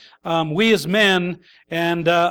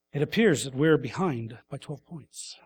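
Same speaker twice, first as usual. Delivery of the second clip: mock deadpan; 4 semitones lower, 6 dB quieter than usual. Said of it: "you're not sitting there".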